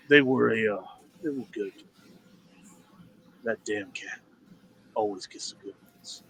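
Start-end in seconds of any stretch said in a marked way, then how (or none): 1.2-6.2 much softer, grim private thought; bitter old soldier, mostly to himself; inner grumble. Acted. Veteran's inner thought after death.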